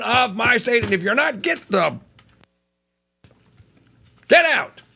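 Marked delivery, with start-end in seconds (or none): 4.3-4.8 sudden loud high bark; furious shout ordering them out; shouted command. Real, not acted. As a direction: blast it out. Repeated outburst.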